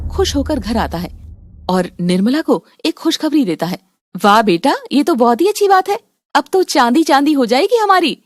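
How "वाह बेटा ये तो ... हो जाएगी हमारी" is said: delighted. Acted. Mother hears good news.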